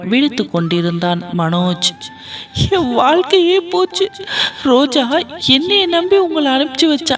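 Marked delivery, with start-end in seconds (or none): 2.7-7.2 high, wailing lament through tears; crying lament. Acted. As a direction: wail out her ruin, pitched high. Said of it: "அழுது புலம்பினாள்".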